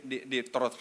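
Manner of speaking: ordinary talk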